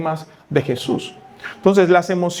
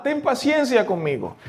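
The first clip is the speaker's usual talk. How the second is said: ruego agudo y contenido; súplica suave; 7 semitones higher, 4 dB quieter than usual. Retold or imitated. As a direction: implora con voz alta pero suave. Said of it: "y clama". (súplica de rodillas, agudo y contenido)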